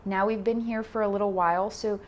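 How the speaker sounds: calm instruction with long pauses between cues; guided meditation. Acted. Yoga teacher guiding beginners through posture and breath, guided meditation. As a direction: talk them through it, unhurried, leaving space.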